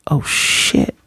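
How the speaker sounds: breathy whispered curse; whispered oops; whispered dismay. Retold or imitated. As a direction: breathe it out, caught off guard. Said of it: "Anya reads her mind like".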